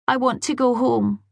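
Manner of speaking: put-on high, petulant little-boy whine; a sulky four-year-old digging in; whiny child. A narrator's reading. Small boy repeating refusal.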